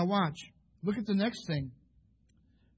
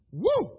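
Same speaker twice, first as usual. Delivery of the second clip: amazed whoop; 11 semitones higher, 7 dB louder than usual. Real, not acted. Reacts to river of blood.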